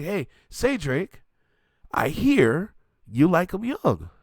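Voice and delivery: slow, drawn-out quote of the lyric; quoting a rapper. Retold or imitated. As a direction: stretch out "Hey, say Drake" like a taunt. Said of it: "Kendrick Lamar saying".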